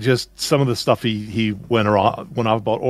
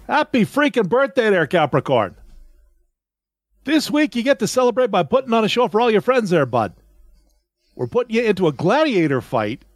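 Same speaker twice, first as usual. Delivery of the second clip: high, broad North Dakota horoscope voice; hammed-up North Dakota accent, pitched high; 8 semitones higher than usual. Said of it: "a proper North Dakota accent".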